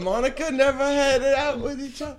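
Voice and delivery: put-on British-Australian accent. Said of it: "It just sounds a little British".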